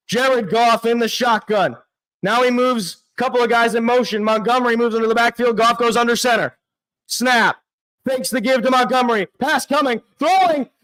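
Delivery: quick running commentary, rising on the throw; live play-by-play. Real, not acted. Fan calling the Lions' final drive, live play-by-play. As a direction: call the play as it happens, fast.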